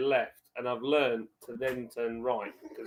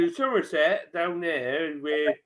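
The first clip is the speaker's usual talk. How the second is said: put-on teasing Somerset accent, drawn out. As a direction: stretch it out like a Somerset local. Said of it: "I say he talks like that".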